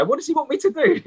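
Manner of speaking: high, exasperated whine; mock exasperation. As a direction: play the friend who can't win. Friend exasperated, can't win.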